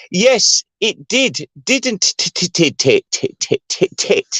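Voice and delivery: overdone hard T sounds; mock posh, spitting out every t in "it did"; fake posh T. Shown as a demonstration. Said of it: "only poor people who make out they're rich people say "t".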